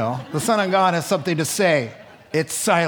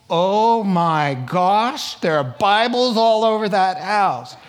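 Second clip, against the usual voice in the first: mock amazement; 4 semitones higher, 4 dB louder, slower than usual. Imitates unbeliever boasting of devout aunt.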